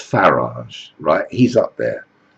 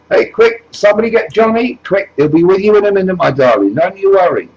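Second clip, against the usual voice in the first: much higher, louder, fast excited voice; eager rush; 11 semitones higher, 5 dB louder, faster than usual. Acted. Jesus Farage rushes to welcome the woman, hammed-up eager. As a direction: hurry everyone along for her.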